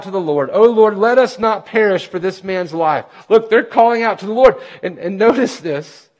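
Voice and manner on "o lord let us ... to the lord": rising, louder preaching on calling out. Acted. Preacher voicing the sailors' cry to the Lord, louder. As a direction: lift the voice as the cry builds.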